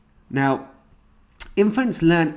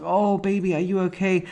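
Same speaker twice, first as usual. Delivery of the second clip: higher-pitched soothing mother voice; retold motherly concern, pitched up; imitating a doting mother; 5 semitones higher than usual. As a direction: fuss tenderly over an upset baby. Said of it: "she's back and she's like".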